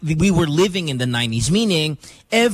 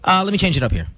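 talking with something in the mouth; words around a mouthful of medicine; mouth full; faster than usual. Real, not acted. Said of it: "like you have candy in your mouth".

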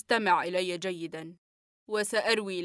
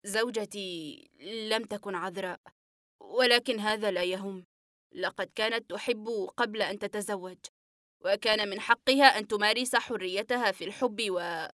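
gasping out the admission; out of breath. Acted. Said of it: "وقال وأنفاسه تتلاحق".

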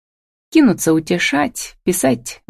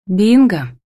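wry smirk; 3 semitones higher, 3 dB louder than usual. A narrator's reading. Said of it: "криво усмехнулась Камила".

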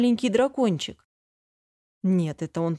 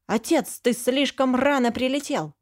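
put-on displeased child; 6 semitones higher than usual. A narrator's reading. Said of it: "Голос дракончика был недовольным".

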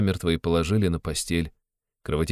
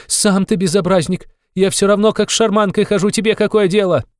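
high, loud, indignant outburst at the policeman; frantic scolding; 13 semitones higher, 6 dB louder than usual. A narrator's reading. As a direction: snap at him high and loud. Widow retorts to policeman. (высокая гневная отповедь)

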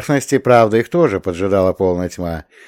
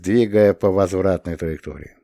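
usual speaking voice

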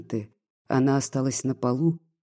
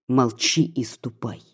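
ordinary delivery, nothing marked

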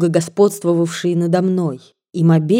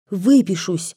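ordinary delivery, nothing marked

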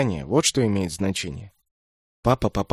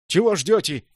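loud, higher panicky cry; hysterical yell; 8 semitones higher, 3 dB louder than usual. A narrator's reading. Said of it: "истерически вопит Джал".

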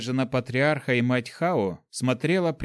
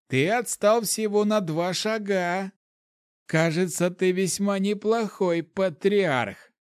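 put-on amused old hermit; 7 semitones higher, slower than usual. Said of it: "рассмеялся отшельник Вэй".

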